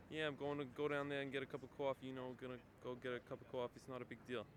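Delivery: put-on slurred, quick New York accent. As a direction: run the words together like a New Yorker, saying "cawfee". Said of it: "they tend to slur all their words together".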